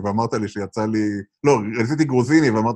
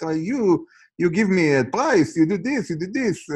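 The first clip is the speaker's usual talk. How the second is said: put-on Persian accent; 5 semitones higher, much slower than usual. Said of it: "חבר איראני ... המבטא".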